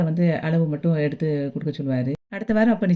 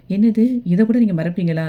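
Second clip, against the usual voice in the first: retold indignant exclamation; shocked disbelief; 3 semitones higher, 4 dB louder than usual. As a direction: act out appalled disbelief, starting on a jump up. Acted outraged disbelief in a quarrel.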